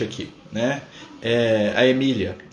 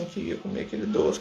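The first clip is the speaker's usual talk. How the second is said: whispered, softer craving; soft wish; 3 semitones higher, 6 dB quieter than usual. Retold or imitated. Parent quietly longing for the last sweet, whispering. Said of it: "Você fala assim".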